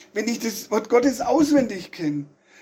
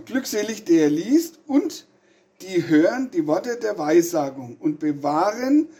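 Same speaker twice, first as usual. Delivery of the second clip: slow careful reread; 3 semitones lower than usual. Shown as a demonstration. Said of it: "noch einmal".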